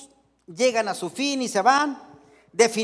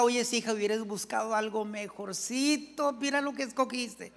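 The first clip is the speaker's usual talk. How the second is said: hushed, confiding parental aside; mock little secret; 7 dB quieter than usual. Parent hugging daughter at wedding, mock secretive. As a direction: drop the volume as if into an ear. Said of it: "se dicen en secretito".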